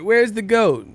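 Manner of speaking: high, loud squeaky question; imitating her. Streamer imitating a woman in the movie asking for the goat, high. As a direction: pitch it way up like a panicked woman. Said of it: "she was like".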